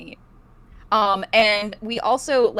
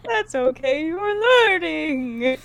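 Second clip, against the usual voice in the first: high, slow ghostly coo; 8 semitones higher, 3 dB louder, slower than usual. Pretend. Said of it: "ghost intro".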